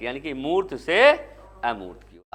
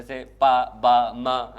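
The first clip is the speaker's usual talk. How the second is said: put-on baby babbling; 6 semitones lower, 4 dB louder, much slower than usual. Shown as a demonstration. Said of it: "बच्चे आप sounds बोल रहे हैं".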